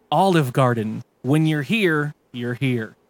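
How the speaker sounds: gurgly, soggy announcer voice; wet voice. Acted. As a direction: read the slogan through wet gurgles. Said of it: "Announcer with a wet voice".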